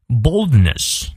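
Boldness with the stress on BOLD; BOLD-ness, front-stressed teaching demo; stress on first syllable. Shown as a demonstration. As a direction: hit the first syllable of Boldness, let the second fall. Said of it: "重音在前".

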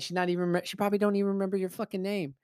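high-pitched exasperated rush; exasperated scolding. Retold or imitated. Friend scolds bachelor party friends, exasperated. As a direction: rattle it off high, fed up.

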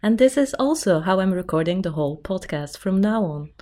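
polished flight attendant announcement voice; smooth cabin-crew PA voice; stewardess voice. Acted. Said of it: "I like it. It's like an elevator somehow".

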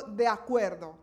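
God settling the matter firmly; the Lord, annoyed. Acted. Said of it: "se enojó con Moisés y le dijo".

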